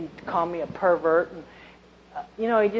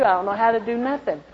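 louder, higher panicked thought; retold panic; 4 semitones higher, 4 dB louder than usual. An ex-convict telling the church her old panic, a touch alarmed. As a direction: replay the fear that night, pressing harder. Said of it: "You know, I thought".

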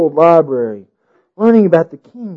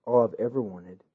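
gentle king; 7 semitones lower, 15 dB quieter than usual. A narrator's reading. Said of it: "the king replied gently".

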